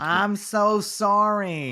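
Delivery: drawn-out apology in a mock Boston accent; put-on accent. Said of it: "he's doing it again".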